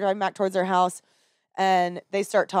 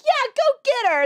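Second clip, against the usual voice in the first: put-on high, excited girly voice; imitating cheering girl; 4 dB louder than usual. College girl urging drunk husband to chase wife, high giddy cheer. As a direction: egg him on in a much higher voice.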